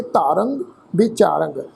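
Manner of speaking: ਧਾਰੰਗ ਵਿਚਾਰੰਗ with nasal endings; nasal pronunciation. Shown as a demonstration. Teacher models the nasal reading of the tippi. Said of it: "ਇਹਦਾ ਪਾਠ ਨਾਸਕੀ ਉਚਾਰਨ ਕਰਾਂਗੇ".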